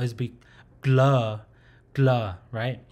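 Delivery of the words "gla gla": "gla" with an L after the first consonant; L sound. Shown as a demonstration. Teacher showing how to add the L sound, demonstrated pronunciation. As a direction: say "gla" with an open mouth. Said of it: "pronounce it with, uh, L sound".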